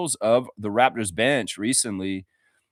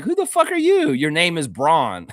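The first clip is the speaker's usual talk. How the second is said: mock indignant snap; 3 semitones higher, 5 dB louder than usual. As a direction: play a huffy snob, mock-offended. Mocking the player's name fuss.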